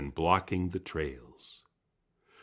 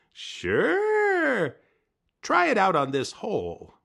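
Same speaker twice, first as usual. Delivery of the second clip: high, loud eager voice; high eager trickster; eager Coyote; 5 dB louder, slower than usual. Acted. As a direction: jump at the chance.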